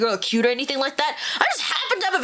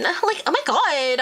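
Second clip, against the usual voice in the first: put-on valley girl; 3 semitones higher, slower than usual. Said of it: "Valley Girl voice".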